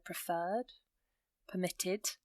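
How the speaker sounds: lightly weight the second syllable in "preferred, permitted"; subtle second-syllable stress. Shown as a demonstration. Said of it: "hear the emphasis on the end".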